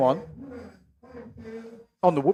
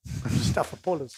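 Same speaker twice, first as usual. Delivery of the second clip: Greek accent; 2 semitones lower, 9 dB quieter, slower than usual. Shown as a demonstration. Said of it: "have to say it in a Greek accent".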